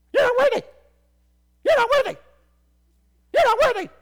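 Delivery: very high, loud parrot screech. Retold or imitated. Preacher mimics the friend's loud parrot, screeching. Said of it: "It's like a parrot".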